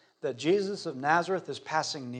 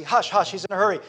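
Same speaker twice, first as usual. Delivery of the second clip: brisk raised-voice hushing; 3 semitones higher, 4 dB louder, faster than usual. Acted. Crowd silencing the blind beggar, hushing. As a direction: shush him over the noise. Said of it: "they're hushing him".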